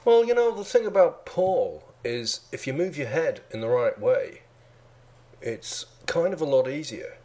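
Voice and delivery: high-starting Liverpool lilt, Beatle impression; Paul McCartney. Co-host asked to do a Beatle, high Liverpool accent. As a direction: lift it into airy Scouse. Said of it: "can you do Paul?".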